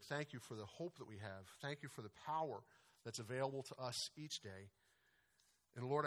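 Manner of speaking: earnest pastoral prayer, unhurried; closing prayer. Acted. Pastor closing the sermon in prayer for the congregation, earnest and humble. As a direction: pray it over the people, humble and sincere.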